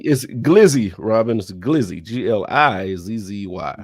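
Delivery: chewing ice while talking; ice in mouth. Real, not acted. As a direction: talk around crunching ice. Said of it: "sorry about chewing my ice on the mic".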